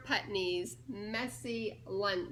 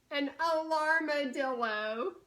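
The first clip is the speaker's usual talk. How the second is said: big reveal; 3 semitones higher, 5 dB louder than usual. Acted. Punchline reveal read aloud.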